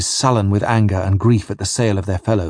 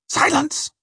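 ぐっと高く、鋭く一言で黙らせる; 怯える部下を短く制する; sharp snap. Acted. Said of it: "snaps Spring".

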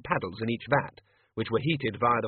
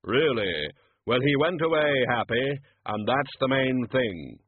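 Death voice; 3 dB louder, slower than usual. Acted.

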